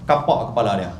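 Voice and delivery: ordinary talk, nothing marked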